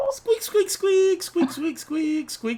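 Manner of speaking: very high squeaky squeak; squirrel squeaks. Pretend. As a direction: squeak like a tiny toy squirrel.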